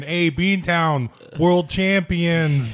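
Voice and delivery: slow, drawn-out gloating chant; mock Boston fan. Teasing a Boston fan who gloats, slow mock chant. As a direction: stretch it out like a smug fan taunting. Mocking Boston sports fans.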